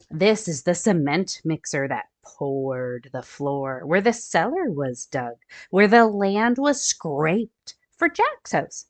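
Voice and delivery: storybook read-aloud for little ones; gentle picture-book narration; reading to children. A narrator's reading. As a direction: read it like story time for kids.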